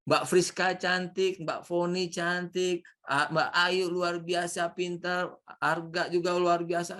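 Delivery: slow, sweet string of compliments; teacher showing how to flatter students; complimenting demo. Shown as a demonstration. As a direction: praise each one slowly and kindly. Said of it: "saya puji".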